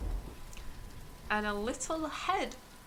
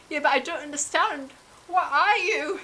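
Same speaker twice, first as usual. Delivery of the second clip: high, loud, rushed panicked questions; a freaked-out kid blurting at the egg-man; startled Terry; 7 semitones higher, 6 dB louder than usual. Acted.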